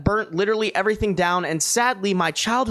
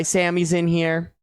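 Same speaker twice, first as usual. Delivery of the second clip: ordinary talk, nothing marked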